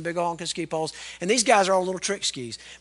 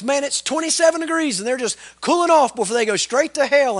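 loud retort; 7 semitones higher, 5 dB louder than usual. Retold or imitated. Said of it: "he lit back into 'em".

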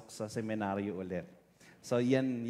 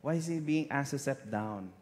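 higher, louder startled asking; alarmed why, pitched up; shocked question; 5 semitones higher, 3 dB louder than usual. Retold or imitated. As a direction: replay the jolt of the news. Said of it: "Sabi ko".

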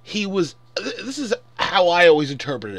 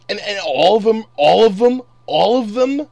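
louder and higher with each repeat; a ranting fan escalating, louder at each repeat; building outrage; 4 semitones higher, 8 dB louder than usual. Real, not acted. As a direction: hammer the phrase harder each time. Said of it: "I know I sound mad because I am mad".

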